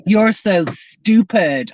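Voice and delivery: slow, drawn-out mocking put-down; mock insult. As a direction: imitate a scornful insult, dragging it out. Mimics insults often heard in livestreams.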